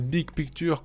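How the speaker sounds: Big Picture in a mock English accent; hammed-up English accent on Big Picture. Shown as a demonstration. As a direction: say it like an English speaker. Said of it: "dans mon magnifique accent anglais".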